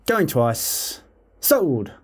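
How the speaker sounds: auctioneer calling the bids. Acted. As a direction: rattle it off like an auctioneer. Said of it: "that is what you'll hear".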